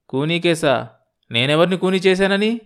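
rising, bewildered questions; taken aback. Acted. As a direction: question the accusation in disbelief. Accused man protests.

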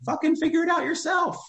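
high, frustrated outburst; a high exasperated yell at needy followers; exasperated shout. Real, not acted. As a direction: blow up at the lazy askers. Rant peak, shout heard.

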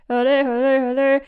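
exaggerated mock singer voice; a famous pop singer. Shown as a demonstration. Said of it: "silly singer impression where you're exaggerating it".

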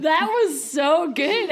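slow, high laughing praise. Real, not acted. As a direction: laugh through the words. Laughing after a good sound.

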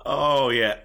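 sing-song Wisconsin oh yeah; bright Midwest agreement; Wisconsin accent. Pretend. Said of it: "Wisconsin accent".

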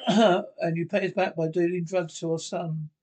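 loud furious accusation; aunt loudly scolding the nephew for dealing to her son; angry scolding. Acted. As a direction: let him have it, loud and hurt. Aunt scolding nephew over drugs.

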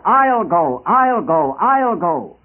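mild ringing cry of volunteers; acted volunteer's cry. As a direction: call it out eagerly, each one rising up and falling away. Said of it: "crying out".

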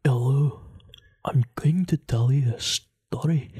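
put-on Scottish-accented bedtime narrator; mock Scottish sleep-story opening; Scottish storyteller. Imitating a meditation app narrator, mock Scottish accent. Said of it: "adult bedtime story".

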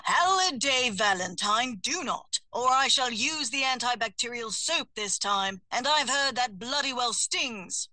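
lightly voiced prim British hummingbird, a hint of a stern warning; a touch of an uptight familiar scolding his witch; deep voice warning. Narrator as Atticus warning Halliday from inside the cat's mouth, mild stern British. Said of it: "Atticus cautioned in his deep voice".

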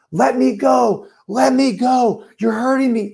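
high, frightened cry, pitched well up; retold terrified screaming. Girl in dark alley begging to be let go, frightened high cry. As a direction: imitate a girl shrieking for her life. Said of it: "we hear this girl just screaming".

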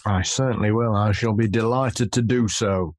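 grand theatrical reading voice; hammy stage actor. Pretend. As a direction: declaim it like an old stage actor. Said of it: "Very theatrical".

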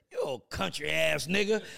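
mock insult. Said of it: "he's like".

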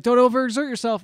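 high, loud fussy warning; hammed-up girlfriend concern; mock breathy concern. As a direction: fuss over him in mock worry.

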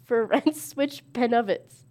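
slow, distinct "of" as uv; "of" not "off". Shown as a demonstration. Player retrying the card, slow "pen of its" with uv. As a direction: spell out "pen of its" slowly with a clear "of". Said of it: "Say it as of".

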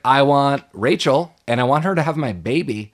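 mock Satan naming his price; smug devil voice. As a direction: savor each word like a hungry devil. Podcaster voicing the devil Beazle.

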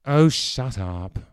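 slow, bitter and weary. Acted. Clive cuts off the umpire act, bitter. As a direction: spit it out with disgust. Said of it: "Clive said bitterly".

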